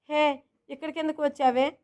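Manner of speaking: plain reading voice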